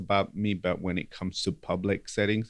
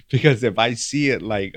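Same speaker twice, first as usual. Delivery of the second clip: laughing; 4 semitones higher, 11 dB louder than usual. Real, not acted. Laughing at the Monday teasing.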